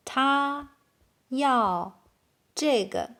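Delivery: isolated words with long gaps. Shown as a demonstration. Teacher translating "he need this" for learners, word by word. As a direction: say each word separately for learners.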